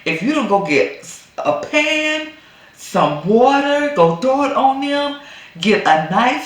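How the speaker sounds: high, loud urgent egging on; rally her like a fired-up friend; fired-up advice. Retold or imitated. Urging the wife to fight back, loud high urgent egging on. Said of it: "I was like".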